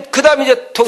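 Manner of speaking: normal talking voice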